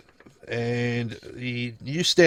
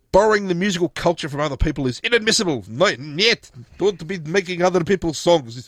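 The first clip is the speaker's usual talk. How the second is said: put-on Putin accent; 4 semitones higher than usual. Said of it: "is that your Putin accent".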